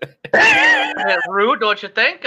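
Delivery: put-on high, huffy old lady voice; prim and put out, threatening to throw them out; offended old lady. Shopkeeper scolds laughing Daniel, high and huffy.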